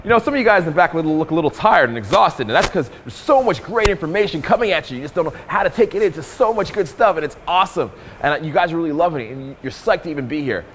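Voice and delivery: upbeat flattering pitch to the crowd; butter up the room warmly; flattering cold read. Shown as a demonstration. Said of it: "A cold read here can be like".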